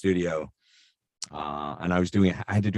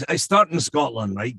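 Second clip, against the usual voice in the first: put-on Scottish accent; 4 semitones higher than usual. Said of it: "do the tour of Europe".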